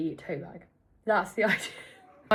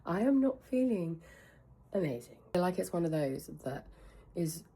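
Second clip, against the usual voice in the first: low, soft, husky morning voice; 4 semitones lower, 4 dB quieter than usual. Real, not acted. Vlogger unwell the morning after, husky. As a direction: talk through a husky, under-the-weather voice. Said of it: "tell by my husky voice".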